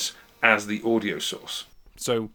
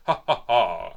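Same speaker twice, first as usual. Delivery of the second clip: raised voice, testing the mic; slightly louder mock laugh; a little louder; 6 dB louder, slower than usual. Shown as a demonstration. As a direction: speak up a bit and laugh it out. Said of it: "now I'm gonna talk a little bit louder".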